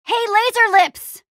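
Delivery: high, drawn-out taunt; taunting call. Acted. Hero baiting a guardian monster, taunting call. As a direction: call out to provoke the enemy.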